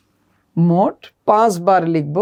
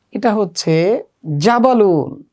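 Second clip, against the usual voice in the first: slow model answer; slower than usual. Shown as a demonstration. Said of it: "এভাবে চিত্র দেখে দেখে আরবি বলা শিখতে হবে".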